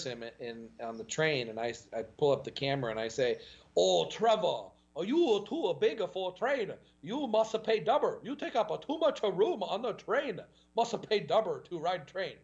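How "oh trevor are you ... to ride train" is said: high, hammed-up mock Asian accent teasing his friend. Teasing big Trevor on a packed Asian train, in a mock Asian accent. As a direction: butcher an Asian accent to embarrass your buddy. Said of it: "in the Asian accent".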